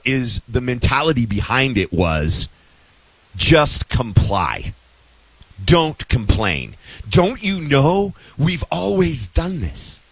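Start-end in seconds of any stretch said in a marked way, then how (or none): 3.3-6.7 slowly spelled out, word by word; deliberate sarcastic slowness; slow mock mantra. Voicing a submissive mentality. 7.1-10.0 slow, put-on preachy voice; hint of a condescending know-it-all; mocking critic. Voicing the critics' mentality.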